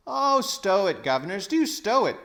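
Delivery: high, loud cockney hush; gruff cabby. A narrator's reading. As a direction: shut them up, cabby style. Cabby silences the quarrel.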